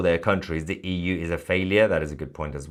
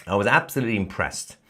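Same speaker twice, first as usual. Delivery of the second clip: sarcastic. Real, not acted. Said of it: "I'm saying this sarcastically".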